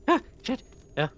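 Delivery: high startled goblin curse. Acted. Spellix cursing as he's caught. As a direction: blurt it in alarm. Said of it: "he's like".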